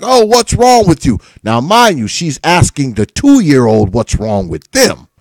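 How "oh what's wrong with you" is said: mother's dismissive question. Retold or imitated. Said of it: "she was like".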